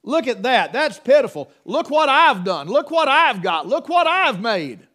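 loud, proud showing-off brag; a mock-boastful Cain, loud and pleased with himself. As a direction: crow over his offering like a show-off. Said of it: "Cain's over here and said".

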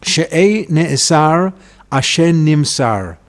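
slow, measured verse demonstration; phrase after phrase. Shown as a demonstration. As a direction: set "She'ei ne'esar" apart from "asher nimsar". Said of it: "word, phrase after phrase".

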